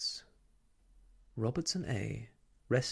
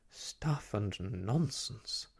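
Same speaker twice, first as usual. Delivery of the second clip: cross; much slower than usual. Acted. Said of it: "said Miss Lark crossly".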